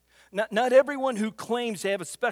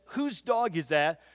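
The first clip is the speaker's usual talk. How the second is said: straight face; 3 semitones lower than usual. Retold or imitated. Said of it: "with a straight face".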